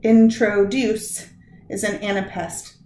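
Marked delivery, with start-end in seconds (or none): 0.0-1.3 "Introduce" slowly syllable by syllable, in-tro-DUCE; stress on last syllable. Shown as a demonstration. Teacher demonstrating an anapest, "Introduce" slow with stress on DUCE. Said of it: "unstressed ... followed by the stressed syllables".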